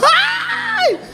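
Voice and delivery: very high shrill mock baby cry; high mock baby scream; baby's wail. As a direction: squeal like the baby in the car seat. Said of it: "Ele fica".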